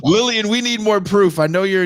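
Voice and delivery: high, loud laughing plea. Real, not acted. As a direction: laugh while calling her out. Laughing after the arrest story.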